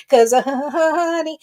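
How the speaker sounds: laughing through the words, slow. Real, not acted. Host laughs while teasing the flirting man, slowly. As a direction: break into a laugh as you say it. Host cracks up mid-sentence.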